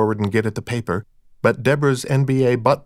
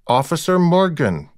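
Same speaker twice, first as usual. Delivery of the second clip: stern; 7 semitones higher than usual. A narrator's reading. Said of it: "Recht said sternly".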